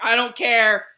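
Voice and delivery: loud laughing "I don't care"; defiant retort. Retold or imitated. To her mom about the decision, loud defiant laugh. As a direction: snap back at mom, laughing.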